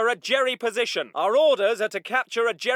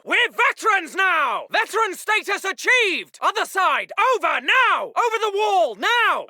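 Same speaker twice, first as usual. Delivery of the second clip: raised officer's battle voice; hearty shouted call. Acted. Officer sending veteran chaps over the wall, shouted. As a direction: call it out briskly to the squad.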